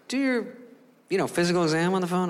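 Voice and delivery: mildly taken aback, acted-out doctor; incredulous doctor. Doctor reacting to a request for a phone physical, incredulous.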